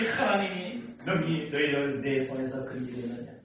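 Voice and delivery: level boast with punched, drawn-out openings; monotone proclamation, each question launched hard then falling; Sennacherib's challenge. Acted. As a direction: declaim it as a challenging king. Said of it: "이 산헤립의 말이 뭡니까".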